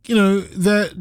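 ordinary delivery

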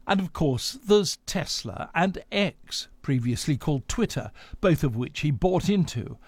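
measured scripted radio news delivery; news read. Acted. Presenter introduces Elon Musk's story to listeners, news read.

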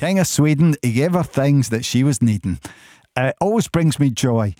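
Scottish lilt on needing and Sweden; Scottish accent. Shown as a demonstration. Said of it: "it's even better in a Scottish accent".

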